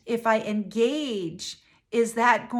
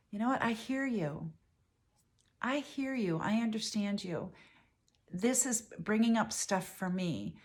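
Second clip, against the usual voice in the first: softer, gentle, reassuring partner voice; calm loving reply; 3 dB quieter than usual. Shown as a demonstration. Modelling a calm reply to an angry partner, softly reassuring. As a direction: say it quietly, with love, to defuse the fight. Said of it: "one day you just say".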